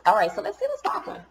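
high, laughing and upbeat; chuckling excitement. Real, not acted. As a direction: dive in with a laugh. Excited to check cards.

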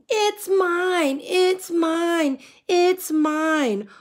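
high mocking squeal; mock shouting. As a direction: mimic the frogs' squabbling. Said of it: "I can hear you shouting".

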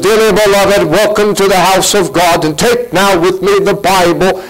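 lightly pompous orator voice; a hint of a polished pulpit orator; mildly grand welcome from the pulpit; mock grand orator. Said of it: "Apollos was the orator of the day".

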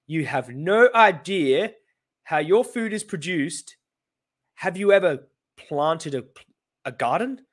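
slow, drawn-out mimicry of the farmer; mocking the farmer's question; mocking imitation. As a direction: parody his words slowly. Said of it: "he said".

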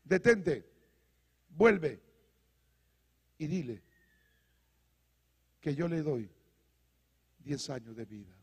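low, measured divine command, with long pauses; God speaking. Acted. The Lord stopping the departing prophet, low measured command. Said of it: "el Señor le dice".

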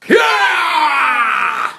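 high loud yeah; excited cheer. Real, not acted.

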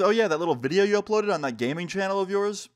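taunting teacher. Retold or imitated. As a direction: lightly imitate a teacher's taunt. Teacher exposes student's channel.

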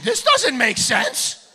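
slow, deliberate disbelief. Retold or imitated. Shoppers baffled by the unprotected bag boy, slow. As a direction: drag each word out in disbelief.

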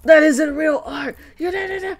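put-on snobby teen rant. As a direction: rant like a snooty thirteen-year-old. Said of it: "'cause I was like".

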